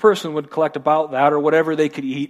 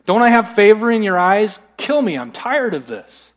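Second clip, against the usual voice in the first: mildly exasperated mock outburst; mad; 4 semitones higher than usual. Moses pleading with God, mildly mad and fed up. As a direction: act out a fed-up plea, rising then falling. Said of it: "Moses gets mad at God".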